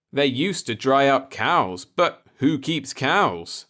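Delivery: slow, ominous hint of menace. A narrator's reading. Repairman warning about witches, slow and ominous. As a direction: let it hang darkly. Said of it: "the bearded one said ominously".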